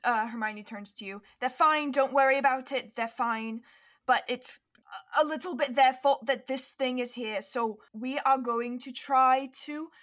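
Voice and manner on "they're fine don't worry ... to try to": louder, firm adult reassurance; brisk reassurance. Acted. Hermione turns to a worried child, brisk reassurance. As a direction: take charge and soothe the child.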